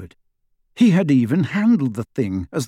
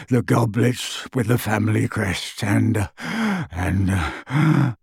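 distressed elf; 2 semitones lower, slower than usual. Acted. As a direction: list it in anguish, slowly. Elf lists stolen things.

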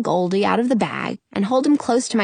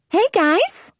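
high, bright-eyed genie greeting; genie Karima; 10 semitones higher than usual. Acted. Genie greeting her friends, high and cheery. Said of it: "Karima says".

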